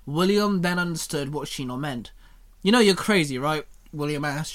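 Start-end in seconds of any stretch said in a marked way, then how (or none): 2.6-3.6 exasperated. Acted. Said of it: "shaking his head".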